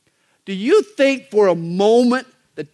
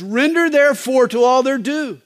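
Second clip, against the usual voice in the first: solemn scripture quote; 5 semitones higher, 4 dB louder than usual. Shown as a demonstration. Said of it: "here he sounds like Jesus".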